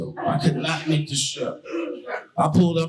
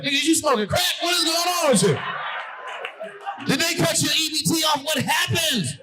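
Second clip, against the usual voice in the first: alarmed hood friends; 12 semitones higher than usual. Retold or imitated. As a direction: yell like something's terribly wrong.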